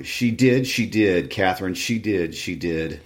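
sing-song taunt trailing off; taunting, fading. Acted. Linton taunting his cousin, a mild mock chant that fades.

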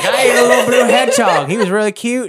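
a gleeful Southern shopkeeper bragging; Southern shopkeeper accent. Acted. I'm regretting the Southern accent thing.

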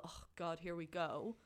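weary eye roll. Retold or imitated. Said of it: "my little eye roll moment".

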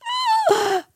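high-pitched mock sob; imitated tearful intake of breath; imitated crying gasp. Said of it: "then she started crying".

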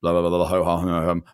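mumbled filler of a political non-answer; lightly parodied political bluster; mock typical politician. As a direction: waffle like an evasive politician. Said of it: "a typical political answer".

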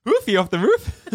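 high incredulous laughing repeat; laughing echo. Real, not acted. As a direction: repeat it amused. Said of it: "quote echoed".

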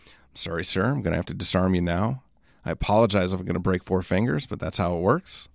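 soft, low mock-polite apology; understated, courteous tough-cop voice; polite Mountie. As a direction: gently apologize while making a threat. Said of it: "they're particularly nice about it".

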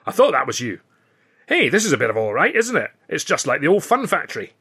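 a hint of a Scottish comic, delighted; lightly voiced Scotsman. Ritchie the Scotsman chats.

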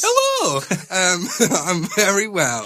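high, laughing northern English hello; exaggerated high-pitched northern English voice; hammed-up northern accent. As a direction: squeal a jokey northern greeting. Playing up the accidental northern accent.

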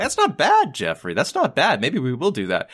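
lightly voiced impressed executives, pitch jumps up; hammed-up mild approval; mock execs. Execs mocking Jeffrey's pitch, a touch of put-on approval. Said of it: "they're like".

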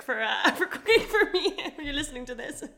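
thanks broken by giggles; can't keep a straight face while thanking; laughing through it. Real, not acted. Thanking the cook, giggling all through. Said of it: "you laughed through the whole clean take".

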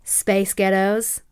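slow American accent, Space Ghettos drawn out; copying the American accent. Shown as a demonstration. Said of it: "Do it again".

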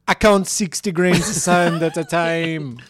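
loud put-on Jamaican accent; hammed-up Jamaican lilt; mock Jamaican accent. Long-lost cousin flown to Jamaica, loud mock accent.

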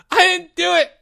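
very high, loud wailing denial; sobbed. Acted. Porge denying the crime to Leo, sobbed wail. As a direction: sob out a protest. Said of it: "sobbed Porge".

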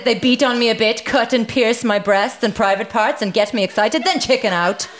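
put-on light comic German accent. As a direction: read the complaint in a mock German accent. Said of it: "do it in a German accent".

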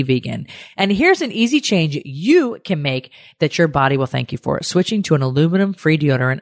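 polished, emphatic sponsor read; podcast ad read. Acted. Host pitches Kapari deodorant to listeners, upbeat ad read. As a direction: sell it to listeners, stressing key selling points.

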